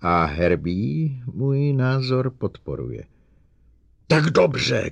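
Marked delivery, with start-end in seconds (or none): 4.1-4.9 loud high angry shout. Acted. Bogart shouts at Lanning in anger. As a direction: yell it at your colleague. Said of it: "křičel Bogart".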